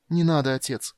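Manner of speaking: high, gentle imploring; pleading. Acted. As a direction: soothe him with a plea. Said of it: "умоляюще проговорила Эльхана".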